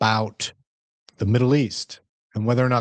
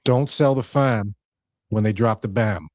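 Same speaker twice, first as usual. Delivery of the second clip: "fam" and "bam" with dropped r, Boston style; Boston accent. Shown as a demonstration. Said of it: "I'm gonna do it in my, um, Boston accent".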